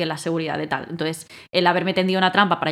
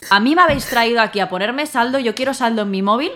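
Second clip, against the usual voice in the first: louder, higher indignant demand for phone credit; making a scene; 4 semitones higher, 5 dB louder than usual. Retold or imitated. Retold rant at the shop men, loud and indignant. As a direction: complain loudly like an outraged customer. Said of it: "monté un cirio diciendo".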